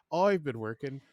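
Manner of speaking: "oi" for I, stage Irish; hammy try at an Irish brogue; attempted Irish accent. Shown as a demonstration. Practicing for the co-host, attempted Irish accent. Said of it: "I know the eyes become always".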